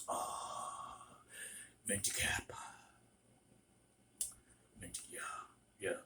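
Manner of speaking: deep guttural, soft, breathy half-whisper. Imitating a customer who always ordered a venti cappuccino, deep guttural voice. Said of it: "he had a deep guttural voice".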